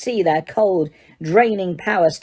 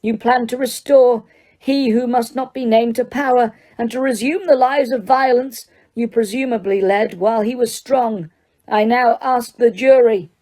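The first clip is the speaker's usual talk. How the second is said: much higher, forceful accusation; bellowing judge; 6 semitones higher than usual. Acted. Judge bellowing charges to the court. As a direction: hammer the charges home. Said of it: "bellowed Mister Crouch".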